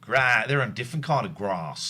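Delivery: put-on Australian accent, "grass" with long open a. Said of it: "I can't do grass in an Australian accent".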